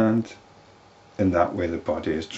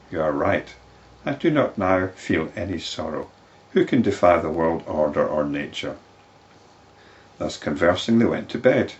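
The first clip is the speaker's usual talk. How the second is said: louder, formal storytelling; scripture story reading; 4 dB louder than usual. A narrator's reading. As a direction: read the tale out with lifted phrase openings. Reads the story aloud.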